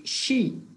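shi with an SH, not CH; pronunciation demo. Shown as a demonstration. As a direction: set shi apart with a hushing SH. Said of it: "porque este es S H". ("shi" con sonido de SH)

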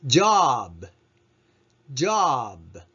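ジョブ with the ブ weak and gentle; soft final b. Shown as a demonstration. Teacher modelling ジョブ for the class. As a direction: punch ジョ, let ブ fade softly. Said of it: "ブは弱く優しく発音してください".

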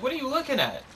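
high, startled yelp; startled outcry. Retold or imitated. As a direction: blurt it out, spooked. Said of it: "I'm like".

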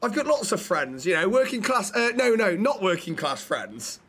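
a light send-up of a politician boasting; Rishi Sunak quote. Retold or imitated. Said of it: "That's something Rishi Sunak said".

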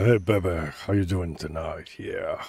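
low, soft-edged girl voice impression; put-on girl voice. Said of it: "that's my girl voice".

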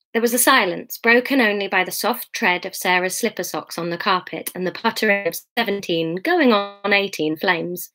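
measured audiobook reading; story narration. A narrator's reading. Reader to her online listeners, measured story narration. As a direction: read the novel aloud evenly. Reads the novel aloud.

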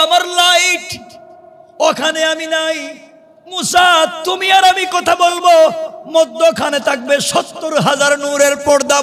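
very high, ringing sermon cry; fervent high-pitched pulpit delivery; full-force preaching. Acted. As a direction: proclaim it high, stretching the key words.

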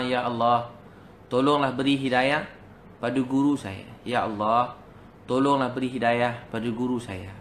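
imploring, repeated appeal to God; pleading prayer. Retold or imitated. Student begging God to guide the teacher, pleading prayer. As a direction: imitate a student praying in measured phrases. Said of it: "Dia doa".

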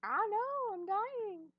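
laughing. Real, not acted. Laughing reaction.

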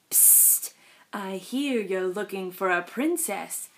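low, soft, conspiratorial; sly fox. Acted. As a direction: lure him in softly.

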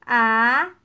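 "Agulha" in three long syllables with gaps. Shown as a demonstration. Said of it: "vamos separar as palavras em sílabas".

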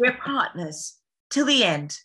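heightened heroic declaration. Shown as a demonstration. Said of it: "you gotta be more dramatic".

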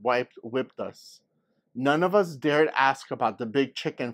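put-on lively read-aloud for children; story narration. A narrator's reading. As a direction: tell the story to the class with energy. Reads story aloud to class.

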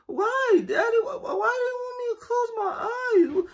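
put-on scared kid. Little boy panicking as his dad tells him to close his eyes.

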